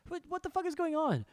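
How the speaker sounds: high, incredulous what the fuck; suddenly thrown, voice jumping up; baffled outburst. Retold or imitated. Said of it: "I'm like".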